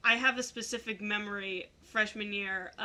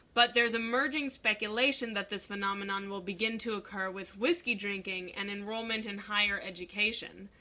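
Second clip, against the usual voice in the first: reading aloud; 3 dB quieter than usual. Acted. Reads Wikipedia definition.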